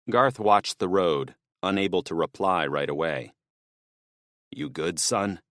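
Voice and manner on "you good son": worried. A narrator's reading. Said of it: "his voice thick with worry".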